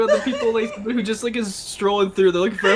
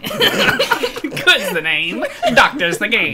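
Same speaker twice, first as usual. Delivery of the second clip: drawn-out catchphrase; 5 semitones higher, much slower than usual. Pretend. Catchphrase repeated with gusto.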